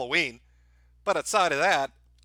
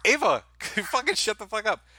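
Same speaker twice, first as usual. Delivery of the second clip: shouting at the dog; 6 semitones higher, 4 dB louder than usual. Real, not acted. Yelling at barking dog.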